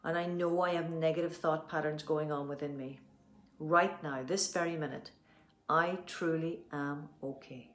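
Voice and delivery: steady earnest affirmation, slowing on the last line; tapping affirmation. Acted. Coach repeating the affirmation for viewers, steady and earnest. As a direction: say it as a calm self-belief statement.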